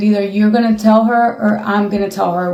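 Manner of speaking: usual speaking voice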